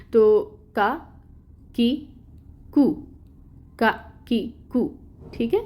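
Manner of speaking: کا، کی، کو each said crisply apart, with a thin front k; thin light kaf syllables. Shown as a demonstration. Teacher sounding out thin kaf syllables for students. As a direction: clip out کا، کی، کو one at a time, light and thin. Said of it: "اس کو باریکی سے ادا کرنا ہے".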